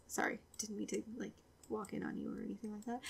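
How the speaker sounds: hushed fast apology; sheepish whisper. Real, not acted. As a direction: whisper it as if you walked in on someone. Apologising after walking in.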